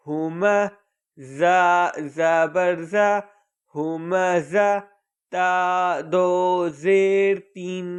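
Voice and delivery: slow chanted Quran spelling, letter by letter; spelling drill recitation. Shown as a demonstration. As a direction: recite each letter and vowel in a measured teaching chant. (ہجے کے ساتھ آہستہ پڑھائی)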